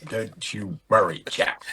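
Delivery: mock posh English. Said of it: "when did people stop speaking like that".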